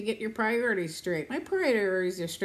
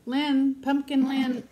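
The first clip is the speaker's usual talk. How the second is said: calling out; 7 semitones higher, 7 dB louder, much slower than usual. Real, not acted. Calling out to viewer.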